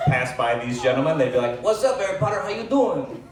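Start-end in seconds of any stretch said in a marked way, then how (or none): 1.6-3.2 put-on high, sing-out Latino-accented greeting; imitated Latino accent. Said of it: "I apologize for the accent".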